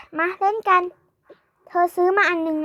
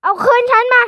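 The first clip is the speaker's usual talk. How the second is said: calling out; 5 semitones higher, 6 dB louder than usual. Acted. Calling for police help.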